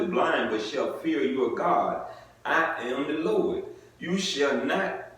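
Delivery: measured formal Bible reading; scripture reading. Acted. Preacher reading scripture to the congregation, measured and solemn. Reads Leviticus aloud.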